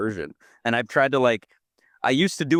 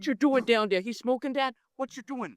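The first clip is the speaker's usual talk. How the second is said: grandpa impression; 11 semitones higher, 3 dB quieter than usual. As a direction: play a grandpa startled by the boys. Imitating grandpa Dean.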